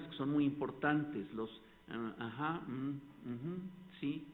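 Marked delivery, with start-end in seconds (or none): 1.9-3.6 soft ah, aja, mm, uju fillers; vocal fillers. Shown as a demonstration. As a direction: murmur the listening noises softly. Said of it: "Los segregadores vocales". (murmullos de asentimiento suaves)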